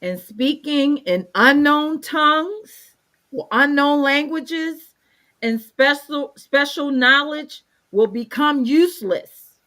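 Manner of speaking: measured reading with deliberate pauses; careful Bible reading; scripture reading. Acted. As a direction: read the verse out phrase by phrase. Reads scripture aloud.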